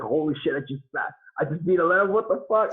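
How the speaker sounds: rising to a high, excited pitch; stunned disbelief. Retold or imitated. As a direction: replay the shock of winning. Shocked reaction after the win.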